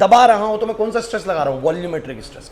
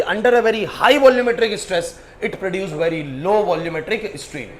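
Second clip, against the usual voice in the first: slow dictation; much slower than usual. Acted. Teacher spelling out the key idea for students, very slow. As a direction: stretch each word for the notebook.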